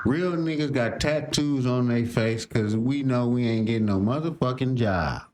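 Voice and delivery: hushed imitation of the rapper's brag; mock his line in a low whisper; whispered mock quote. Reactor mocking the rapper's tattoo claim, whispered. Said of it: "That nigga said".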